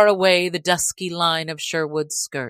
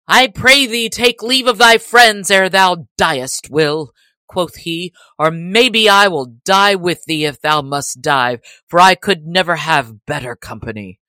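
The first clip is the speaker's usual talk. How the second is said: bold Little John; 7 dB louder than usual. Acted.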